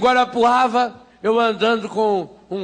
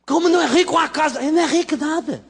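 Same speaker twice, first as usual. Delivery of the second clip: maids gossiping; 7 semitones higher than usual. Retold or imitated. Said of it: "Eu falei".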